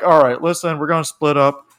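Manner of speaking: lightly voiced Hank Hill type giving orders; Hank Hill accent. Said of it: "this accent started to sound like Hank Hill".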